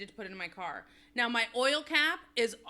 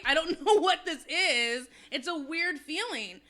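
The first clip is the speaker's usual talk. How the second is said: a laugh breaking into the line, louder; 5 semitones higher, 5 dB louder than usual. Real, not acted. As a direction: laugh it off while admitting confusion. Laughs about unexplained tears.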